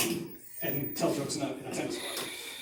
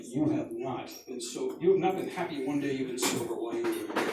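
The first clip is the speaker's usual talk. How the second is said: imitated dad's phone voice; 4 semitones lower than usual. Dad counselling on second call.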